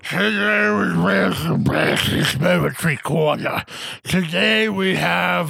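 slushy lateral lisp on every s; lisping thickly through the words. Pretend. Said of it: "That is the most ridiculous lateral lisp I've ever heard".

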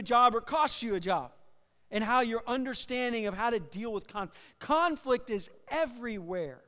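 emphatic, measured sermon delivery; projected pulpit teaching voice; preaching. Real, not acted. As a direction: preach it with weight on the key words. Preaches to congregation.

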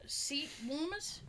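breathy whispered aside. Real, not acted. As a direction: drop to a whisper. Whispered aside about warm seats.

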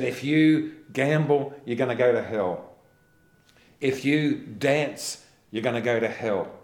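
loud, hammed-up preacher warning; loud mock sermon threat; mock hellfire preacher. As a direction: boom it out like a fire-and-brimstone preacher. Preacher quoted warning of hell.

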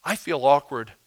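soft, halting excuses with pauses; awkward, timid person. Acted. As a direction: shrink back shyly, trailing each phrase. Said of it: "The person who's like".

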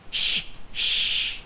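urgent breathy whisper; whispered shh. Acted. Mistress silencing her maid as the captor comes, whispered. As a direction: hush her before he hears.

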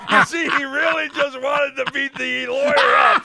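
loud laughter over his words; laughing hard. Real, not acted. Host laughing at his own joke, loud laughter. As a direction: crack up at the punchline.

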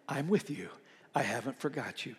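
softly spoken, low words of comfort; tender reassurance. Acted. Preacher voicing God to someone who needs Him near, tender reassurance. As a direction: drop the voice and reassure gently.

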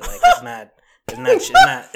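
high, loud words through real laughter; laughing. Real, not acted. Host cracking up over egg freezing costs, laughing.

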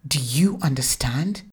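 stern mother asking the cowering husband; authoritative mother. Acted. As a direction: press him for an answer. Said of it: "this authoritative tone".

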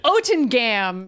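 Otengam sounded out slowly; slow spelling-out. Shown as a demonstration. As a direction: work out Otengam syllable by syllable. Spelling Magneto backwards aloud.

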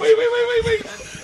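high, loud eager rush; excited interruption. Real, not acted. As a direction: jump in, bursting to tell. Interrupting to tell story.

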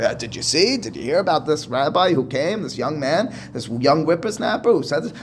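a touch of disbelief at the whippersnapper; incredulous. Retold or imitated. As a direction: scoff lightly at the young upstart. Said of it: "He seems to be incredulous".

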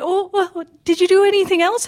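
high-pitched mom imitation; mother's voice. Mom asking about the rest of the day, high imitated voice. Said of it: "And she's like".

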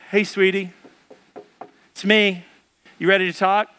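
lightly put-on sweet Christian husband; best Christian voice. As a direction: coax politely, with careful pauses between phrases. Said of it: "in my best Christian voice".

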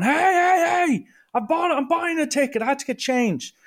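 high-pitched protesting shout, re-enacted; retold frantic calling out. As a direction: call after someone to stop, voice shooting up high. Retold calling after a ticket man.

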